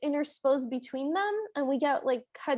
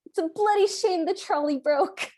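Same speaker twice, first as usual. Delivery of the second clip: put-on British accent; 4 semitones higher, 4 dB louder than usual. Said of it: "pretty darn good British accent".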